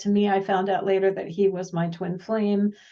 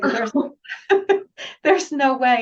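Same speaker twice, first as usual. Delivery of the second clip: laughing disbelief; 5 semitones higher, 4 dB louder than usual. Retold or imitated. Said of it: "they're like".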